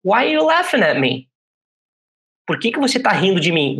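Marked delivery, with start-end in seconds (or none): 0.0-1.3 hurt complaint. Pretend. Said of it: "eu falo pra você".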